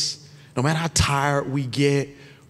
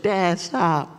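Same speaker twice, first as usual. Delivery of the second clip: lightly voiced mortified kid; a hint of an embarrassed child's protest; embarrassed daughter. Dad imitates his embarrassed daughter at the game, mild protest. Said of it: "She's embarrassed".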